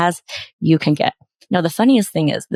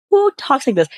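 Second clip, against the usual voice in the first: incredulous; 8 semitones higher than usual. Real, not acted. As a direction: fire the question back in disbelief. Mocking the pitch's wording.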